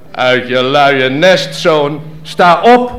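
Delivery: stern father. Acted. Father orders son.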